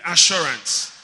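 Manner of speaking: loud, emphatic single word; like you mean it. Shown as a demonstration. Preacher urging congregation to say assurance, emphatic and loud. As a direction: punch it out with full conviction. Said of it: "Say it like you mean it".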